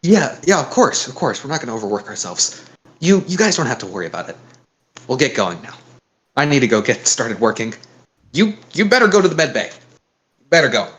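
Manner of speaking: a touch of hurried reassurance; lightly acted, eager-to-go crewman; lightly voiced Wilbur. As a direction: lightly play a game character heading off. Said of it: "Wilbur says that as he runs off".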